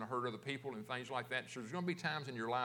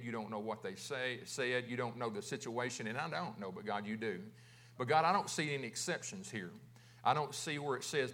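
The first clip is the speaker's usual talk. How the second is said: subdued, slightly lowered praying voice; prayer; 3 semitones lower than usual. Real, not acted. Pastor praying to God about forgiveness, in subdued prayer.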